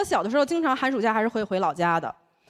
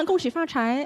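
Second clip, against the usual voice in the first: mynah bird voice; slower than usual. Retold or imitated. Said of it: "八哥突然复活了".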